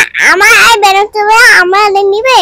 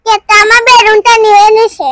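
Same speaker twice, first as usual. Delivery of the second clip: mock-tearful complaint, a bit louder; pretend crying; 3 dB louder than usual. Child tells on the cat for taking the balloon, pretend crying. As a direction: whine it like a play cry. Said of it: "তুমি কান্না করছো কেন".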